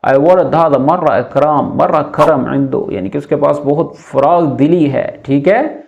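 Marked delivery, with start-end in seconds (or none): 0.0-2.9 very slow, word by word Arabic; slow teacher demo of Arabic phrase. Shown as a demonstration. Teacher slowly models Arabic phrase for students, very slow. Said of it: "करम बोलते हैं फराग दिली को".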